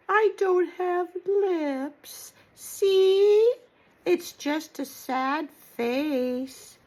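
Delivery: slow, small tearful puppet voice; a hammed-up little sob over having no lips; mock sad whimper. Puppet complains to grandma it has no lips, mock crying.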